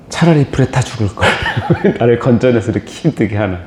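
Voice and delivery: chuckling through a mock grumble; half-laughing at the tree's whining; a light laughing gripe in a preacher's story; laughing complaint. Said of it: "그런다니까요".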